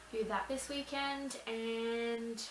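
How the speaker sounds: talking through hiccups; suppressing hiccups. Real, not acted. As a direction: hold back a hiccup mid-sentence. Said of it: "now I've got the hiccups now".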